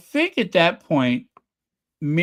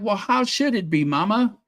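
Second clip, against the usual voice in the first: snapped retort; 6 semitones higher than usual. Retold or imitated. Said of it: "he just snapped on her".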